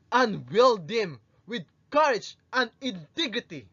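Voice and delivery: passionate monologue. Acted. Rizal addressing the youth of his country, passionate and inspiring. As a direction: deliver a stirring speech, weighing each phrase. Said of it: "direct address and passionate tone".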